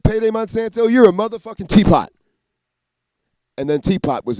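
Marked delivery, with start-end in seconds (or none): 0.0-2.1 high, loud taunting mock insult; imitated voice. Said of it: "And they said".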